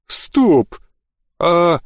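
sudden sharp stop; startled. Acted. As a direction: catch yourself in shock. Sudden realisation of trap.

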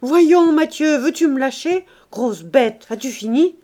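mildly cross, pushing the dog off; scolding. Acted. Woman scolding the jumping dog, mildly cross. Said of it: "et elle se fâchait".

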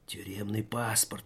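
soft whisper to the passport. A narrator's reading. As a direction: breathe it like a secret. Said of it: "прошептал вор".

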